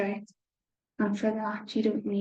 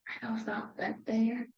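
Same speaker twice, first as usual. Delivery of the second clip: whispered aside; 6 dB quieter than usual. Real, not acted.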